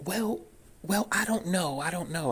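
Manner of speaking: high-pitched mock receptionist voice; overfamiliar receptionist. Receptionist stalling the caller, talking-to-a-puppy tone. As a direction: put her off in a high, coaxing voice. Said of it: "giving me that kinda tone".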